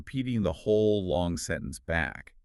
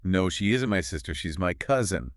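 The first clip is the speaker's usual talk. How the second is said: ISN'T and COUSIN given extra weight; emphasize "isn't" and "cousin"; stress on ISN'T. Shown as a demonstration. Learner echoing the teacher, stress on ISN'T and COUSIN. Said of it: "Emphasize isn't".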